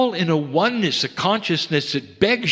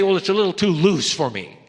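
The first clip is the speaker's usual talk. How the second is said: quick, brushed-off mock objection; mock doubter; 4 semitones higher, faster than usual. Teacher mocking someone doubting a child's love, quick and sniffy. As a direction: toss it off like a fussy doubter. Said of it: "You don't say".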